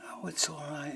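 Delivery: soft, hushed reassurance; retold comforting. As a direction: gently soothe a tearful friend, quietly. Comforting a friend nearly crying.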